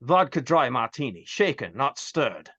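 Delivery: low secret-agent delivery, slowing at the end; James Bond. Acted. Spy orders from the bartender in a skit, low Bond delivery. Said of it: "it was like a James Bond thing".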